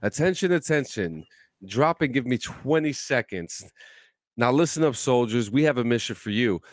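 hammed-up army drill sergeant ad read. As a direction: bark it like a boot camp sergeant selling car washes. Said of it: "Let me get my radio voice ready".

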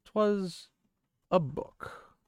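high, airy, unbothered pauses between words; nonchalant. A narrator's reading. Rand answering an angry Moraine about his source, nonchalant.

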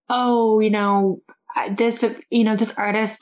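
put-on fretting parent; mocking fussy parents. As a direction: imitate a disapproving parent, mockingly.

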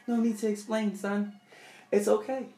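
mildly soothing, hiding the threat; calm reassurance. Retold or imitated. Mom to her son after the crash, mock calm. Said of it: "She said".

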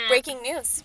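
second try at newsreader delivery; punchy anchor opening line; news anchor voice. Shown as a demonstration. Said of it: "I wanna practice my news anchor voice".

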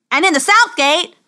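loud, high tournament announcement; herald's cry. A narrator's reading. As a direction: call it out to the whole crowd. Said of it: "cried the herald".

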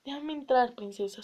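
pleading. Acted.

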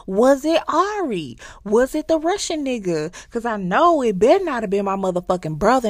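high, loud angry interrogation; furious demand. Retold or imitated. Recapping the show, the brother grilling his girlfriend, high and angry. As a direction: demand answers like a betrayed man.

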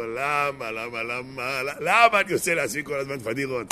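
mock self-reproach under the breath; talking to himself. Husband regretting it afterwards, moaning to himself. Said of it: "הוא אומר לעצמו".

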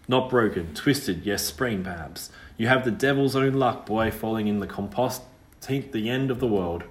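a lightly voiced country girl, curious; old rustic girl, surprised and teasing; lightly voiced ghost girl, brisk and wary. Witch girl Liza's voice.

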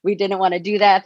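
shaky, emotional voice held together; steady a trembling voice. Real, not acted. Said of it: "I'm getting emotional about it".

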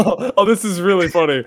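laughing, sarcastic praise. Real, not acted. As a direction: say it with a dry laugh. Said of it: "You sound really sarcastic right there".

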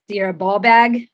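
put-on half-hearted Scottish accent; lightly attempted Scottish accent; bad Scottish accent. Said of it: "I can't do a good Scottish accent".

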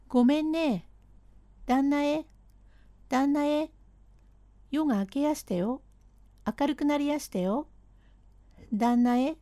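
lightly voiced servant calling his master.

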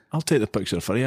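faint, unconvincing American imitation; unconvincing American accent. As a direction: attempt an American accent, badly. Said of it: "not a very convincing American voice".

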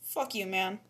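whispered insult; whispering. Real, not acted. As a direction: breathe it out, no voice. Quiet after being told off.

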